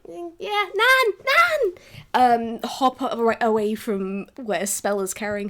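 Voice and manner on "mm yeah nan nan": put-on drowsy child perking up into a high excited call; little girl rousing, calling her grandma; sleepy kid waking. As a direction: wake up calling for Nan, louder at the end. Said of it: "kind of go like".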